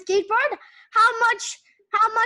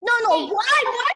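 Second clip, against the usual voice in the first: mock bickering; 5 semitones higher than usual. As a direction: play the squabble, protest the stolen ice cream. Acted bicker over ice cream.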